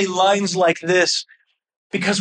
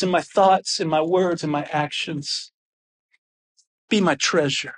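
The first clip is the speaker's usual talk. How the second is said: heartfelt prayer; 2 semitones lower than usual. Acted. Pastor prays aloud.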